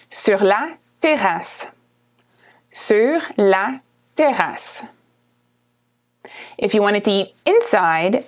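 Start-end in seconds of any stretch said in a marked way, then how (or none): 0.1-4.9 sur la terrasse said slowly; slow model. Shown as a demonstration. Teacher modelling sur la terrasse slowly. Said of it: "Or on a terrace".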